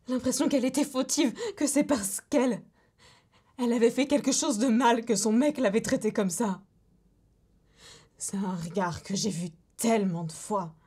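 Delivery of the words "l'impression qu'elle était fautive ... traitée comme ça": indignant. Acted. Indignant account of victim blaming herself.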